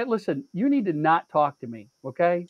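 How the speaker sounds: measured, restrained retold scolding; stern warning. Shopper warning the stranger in line, stern. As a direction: lay down the law, controlled.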